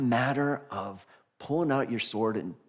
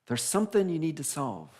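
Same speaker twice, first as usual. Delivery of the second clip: higher, playful riddling Sphinx with a laugh; a lightly voiced Sphinx setting a riddle; Sphinx's challenge; 5 semitones higher than usual. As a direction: tease the hero with the riddle. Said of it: "And the Sphinx goes".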